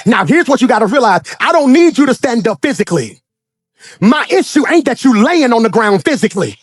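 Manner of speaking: half-sung preaching over the organ; preacher's sing-song whoop; musical preaching. Acted. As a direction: ride the music as you preach.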